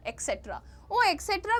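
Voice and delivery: एटसेटरा as ek-SET-ra. Retold or imitated. Teacher recalling another common mistake, ek-setra for एटसेटरा. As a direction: put a k in एटसेटरा. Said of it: "भी बोलते हैं".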